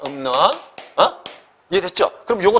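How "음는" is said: "음는" said as pronounced, with a nasal ㅁ before 는. Shown as a demonstration. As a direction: demonstrate the sound change in "음는". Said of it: "요렇게 발음합니다". ("음는"을 소리 나는 대로 발음해 보이기)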